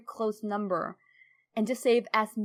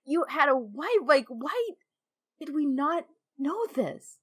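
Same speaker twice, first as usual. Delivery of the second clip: disbelief; 4 semitones higher than usual. Retold or imitated. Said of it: "It's like".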